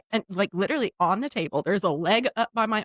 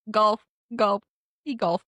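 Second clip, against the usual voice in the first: lightly imitated foreign accent; broken English in a put-on accent; masseuse's foreign accent; slower than usual. Masseuse explains the noises, imitated foreign accent. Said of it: "I do accents".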